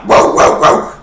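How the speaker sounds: loud imitation of an aggressive dog; aggressive barking. Showing how the scary dog sounded, aggressive loud barks. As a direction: bark hard and loud like a guard dog. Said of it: "it was, like, aggressive".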